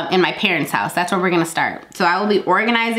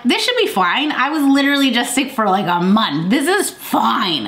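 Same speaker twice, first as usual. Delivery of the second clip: higher-pitched, exasperated self-quote; mock protest; 5 semitones higher than usual. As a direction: insist on it in comic disbelief. Acting out her frustrated protest.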